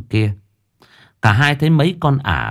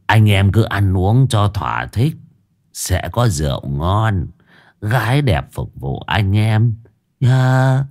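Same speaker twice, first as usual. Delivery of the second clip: put-on drunken drawl. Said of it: "giọng lè nhè".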